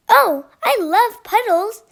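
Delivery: high, loud, slow and delighted; excited yell. A narrator's reading. Young duckling yelling to her new friend, thrilled. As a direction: squeal it out with joy. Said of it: "Thistle yelled".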